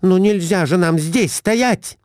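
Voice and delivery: high, shrill scolding wife; Глафира scolding. A narrator's reading. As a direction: pounce on the husband, up high. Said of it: "Набросилась Глафира Семёновна на мужа". (высокая сварливая отповедь мужу)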